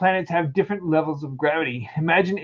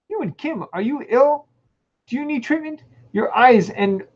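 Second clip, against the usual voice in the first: high, worried alien voice; 9 semitones higher than usual. Acted. Reading aloud, alien worries about sneezing human Kim, high. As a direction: fret over the human like an alien, pitched up.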